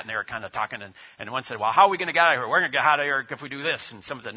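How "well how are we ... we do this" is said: higher, louder mock yell; voicing a frustrated man demanding a way out; retold shouting. Stuck in Uganda, one worker yells at his partner, mock shout. Jeep stuck, men yelling.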